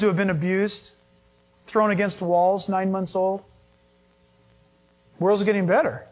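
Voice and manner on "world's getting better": "World's getting better" parroted lightly, as a claim to knock down; mock quote. Shown as a demonstration. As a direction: echo the naive claim before rejecting it. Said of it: "World's not getting better".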